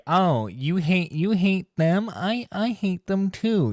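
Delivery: put-on high voice, playing overeager to agree; mock eager bonding. Acts out eager bonding over hate.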